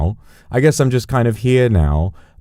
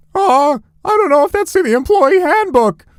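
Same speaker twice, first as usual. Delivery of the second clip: put-on squeaky teenage voice, very high. Retelling what a man said, in a Simpsons Squeaky-Voiced Teen voice. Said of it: "He sounded like the like the fucking squeaky voiced teen from The Simpsons".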